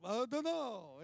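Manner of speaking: a flustered guest stumped on live TV; chef's flustered reply. Retold or imitated. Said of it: "And he's like".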